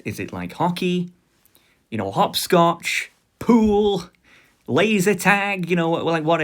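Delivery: high, excited questions; eager guessing. Retold or imitated. Friend guessing at their new hobby.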